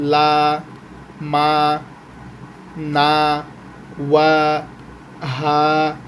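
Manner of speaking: each letter sound like যা, হা, খ said alone with a long pause after; reading letter sounds. Shown as a demonstration. Teacher reading the alphabet aloud to students, spaced letter by letter. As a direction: read the letters one by one, slowly spaced. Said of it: "এটা আপনি reading পড়বেন, বানান করে না".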